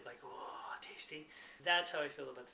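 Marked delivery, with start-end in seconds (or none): 0.3-1.3 whispered tasty. Retold or imitated. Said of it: "that English muffin moment".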